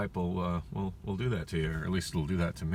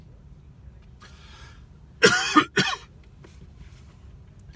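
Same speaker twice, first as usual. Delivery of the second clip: long dry coughing; choking coughs; 5 dB louder than usual. Real, not acted. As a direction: cough on food stuck. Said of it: "I'm choking on a taquito".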